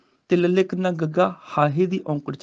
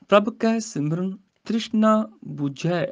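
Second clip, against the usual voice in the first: slow scripture recitation. Shown as a demonstration. Teacher recites the verse for students, slowly. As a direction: chant the verse slowly, rising.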